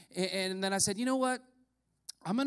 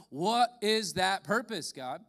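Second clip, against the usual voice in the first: prayerful question; 2 semitones higher, slower than usual. Retold or imitated. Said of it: "And so I wanted to know".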